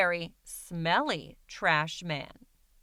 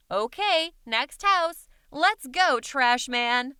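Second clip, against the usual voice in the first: higher, louder cheerful calling; eager kid; 4 semitones higher, 5 dB louder, slower than usual. Acted. Child calling the trash man to the next house, eager and higher. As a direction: hurry the group along happily. Child urging friends onward.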